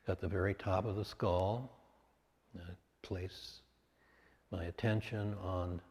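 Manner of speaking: unhurried meditation guide with long pauses; guided meditation. Real, not acted. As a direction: guide them calmly into body sensation, phrase by phrase.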